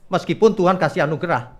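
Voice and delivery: ordinary delivery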